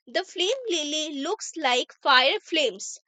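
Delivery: slow, careful English read for learners; teacher reading an example sentence slowly; slow reading aloud. Shown as a demonstration. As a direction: read each word out slowly for the class.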